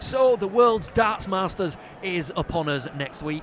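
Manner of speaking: slow, polished presenter read. Shown as a demonstration. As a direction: articulate like a TV presenter. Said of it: "I'll say something like".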